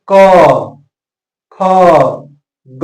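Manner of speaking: क, ख, ग each said alone with pauses, felt in the throat; letter-by-letter demo. Shown as a demonstration. Teacher sounds out क, ख, ग for students to feel the throat. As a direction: sound out क, ख, ग slowly, one at a time. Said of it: "हम इसका प्रयोग करके देखेंगे".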